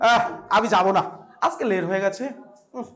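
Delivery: low, soft, reluctant lazy mumble; lazy student. Acted. Teacher mimics a student skipping class, lazy and reluctant. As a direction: play a sluggish student who can't be bothered, voice sunk low. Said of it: "আলসিয়া, আলসিয়ানি লিস্টের মধ্যে".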